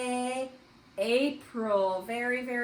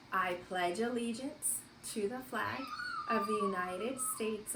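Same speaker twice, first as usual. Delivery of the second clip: reciting the pledge; 5 dB quieter than usual. Shown as a demonstration. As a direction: lead the class through the pledge phrase by phrase. Teacher leads the Pledge of Allegiance.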